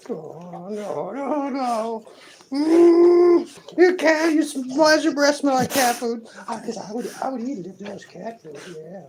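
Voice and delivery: high, contented pampered pet; spoiled pet voice. Pretend. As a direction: speak as a pet basking in attention.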